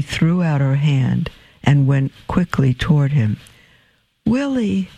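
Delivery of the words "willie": first cry of his name, high and falling; a mother stunned to see her son; startled joy. Acted. Mother spotting her son, startled cry.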